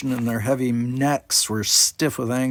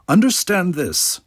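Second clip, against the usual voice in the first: a slow, loud snap; snapped; 8 semitones higher, 7 dB louder than usual. Acted. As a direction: cut him off hard and loud. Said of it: "he snapped".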